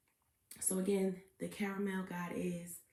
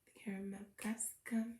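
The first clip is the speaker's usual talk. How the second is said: fast breathy whisper of the catchphrase; 7 dB quieter, faster than usual. Shown as a demonstration. Host whispers her catchphrase to open the reading. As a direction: whisper it quickly like a secret.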